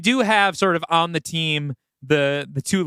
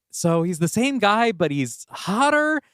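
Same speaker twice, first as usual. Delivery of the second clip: put-on higher, slow, unsentimental old man's aside; dry Arthur; 8 semitones higher, slower than usual. Older gay mentor advising Vincent, slow dry quip. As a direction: tease it out like a jaded mentor. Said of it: "be like".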